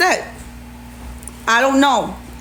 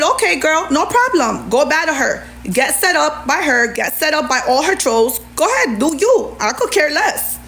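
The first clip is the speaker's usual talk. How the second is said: sarcastic brush-off; 4 semitones higher than usual. Retold or imitated. Mocking dismissal of Ashley.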